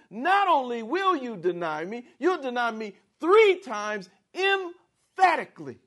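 high, loud, pressing reply; emphatic warning. Retold or imitated. Jesus firmly answering Peter's boast, loud and high. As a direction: insist on the three denials. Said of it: "Jesus says just the opposite".

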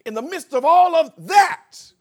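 shouted high with a rising finish; preacher's shout. Acted. Pastor stirring the church, rising shout. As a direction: cry it out to the back pews.

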